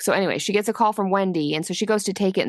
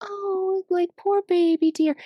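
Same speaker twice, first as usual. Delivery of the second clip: very high, fake sweet, saccharine cooing voice; 12 semitones higher than usual. Imitating a put-on comforting tone someone might fake: imitating a fake sweet tone. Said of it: "she's putting on a fake".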